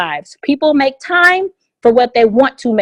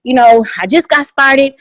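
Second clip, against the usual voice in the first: enthusiastic; 2 semitones higher than usual. Shown as a demonstration. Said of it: "invite somebody ... with enthusiasm and excitement".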